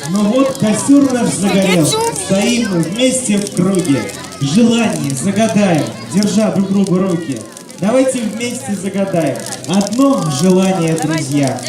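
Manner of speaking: размеренно, напевно, как стихи; прочитай, как стихотворение у костра; чтение стихов. Acted. (декламация стихов)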